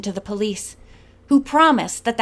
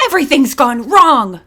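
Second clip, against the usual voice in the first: much louder dismay; exclaimed; 3 semitones higher, 8 dB louder than usual. A narrator's reading. Miss Tyson exclaiming to the gang in panic. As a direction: wail it out in panic. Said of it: "she exclaimed".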